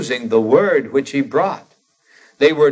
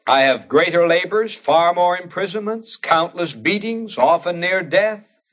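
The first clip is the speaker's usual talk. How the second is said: higher-pitched recited brag; foolish boasting; 5 semitones higher than usual. Retold or imitated. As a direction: pile up the hardships in a raised pitch, imitating a boaster. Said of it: "talks like this is boasting foolishly".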